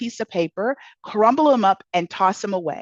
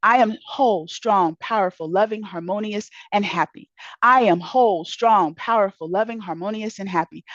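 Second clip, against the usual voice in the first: mantra recited. Shown as a demonstration. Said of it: "has a mantra in his book".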